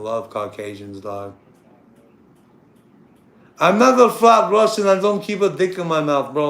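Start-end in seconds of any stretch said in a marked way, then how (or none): 3.6-6.5 mock Russian accent. Shown as a demonstration. Showing a caller how to do a mock Russian accent. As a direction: put on a comic Russian accent. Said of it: "that's how you do a Russian accent".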